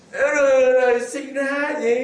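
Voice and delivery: loud, slow "rồi, sinh ra gì?"; booming question to the congregation; calling out question. Real, not acted. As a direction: call it out to the crowd. Preacher quizzing congregation.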